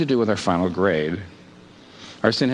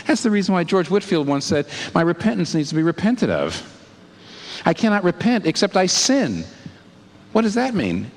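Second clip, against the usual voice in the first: rising fervor; 7 semitones higher than usual. Real, not acted. Preacher builds to full force.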